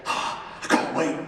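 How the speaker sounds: put-on breathless whisper of the boy hoping to be picked; whispered hope. Schoolboy whispering his hope before seeing the coach, whispered. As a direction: whisper it to yourself, barely daring. Boy hearing the team news.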